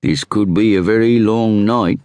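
lightly voiced inspector introducing himself; inspector's voice. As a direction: play the self-assured Scotland Yard inspector. Inspector chatting in the coach.

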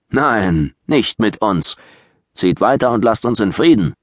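rising outrage at the intruders; indignant. Acted. Suebi leader rebukes the Saxons.

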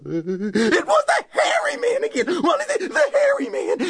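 put-on a boy screaming at the monster; terrified scream. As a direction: scream it out in panic. Wally spots the monster again.

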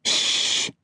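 soft unvoiced shush; warning shush. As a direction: hush her sister quickly. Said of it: "Lavinia warned".

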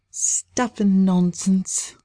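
dismissive. Acted. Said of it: "pushed away his words".

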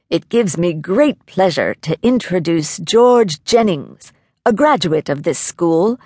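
lightly voiced principal making an introduction; formal introduction. A narrator's reading. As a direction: present the honored guest with measured ceremony.

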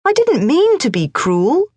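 put-on high boyish plea; a young boy protesting his innocence; boy Morris pleading. A narrator's reading. Morris pleads with his stern father, high boyish voice.

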